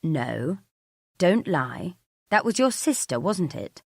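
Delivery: terse, accusing; furious. Acted. Husband catching his wife lying, furious. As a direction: cut her off with contained fury. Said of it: "This is Mark at his most furious".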